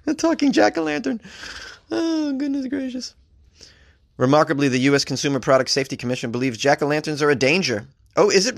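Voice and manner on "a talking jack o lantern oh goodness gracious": high, laughing disbelief; giggly, slowed goodness gracious. Real, not acted. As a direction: laugh it off, amused and incredulous. Laughing at absurd pumpkin ad.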